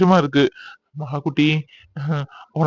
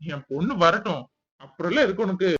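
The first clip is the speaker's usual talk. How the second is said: soft teasing threat; 7 dB quieter than usual. Acted. Husband teasing threat to wife.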